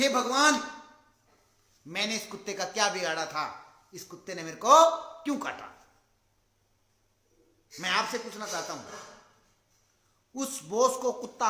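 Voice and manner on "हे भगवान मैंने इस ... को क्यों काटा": loud, wailing complaint to God; crying out. Retold or imitated. Boss just bitten by a dog, crying out to God. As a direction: cry out in hammed-up dismay. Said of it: "चिल्ला रहा है".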